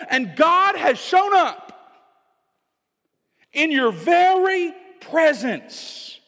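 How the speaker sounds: a commanding, reassuring call across a storm; Jesus calming his disciples. Acted. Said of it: "He's saying".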